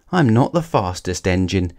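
dismay rising with each mistake; a little engine close to tears; growing distress. Acted. Thomas realises his failures.

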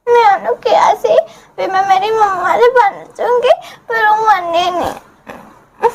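weepy and hurt, dragging the end out; tearful child. Acted. Daughter telling mother what upset her, crying.

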